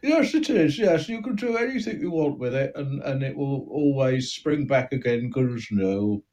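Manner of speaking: a small-time crook boasting, thin Cockney voice; East End gangster. Acted. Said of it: "you've allegedly got an East End accent".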